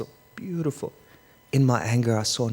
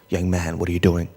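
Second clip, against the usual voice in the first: principal's voice; 4 semitones lower, 3 dB louder than usual. Retold or imitated. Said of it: "he has that principal's voice down pat".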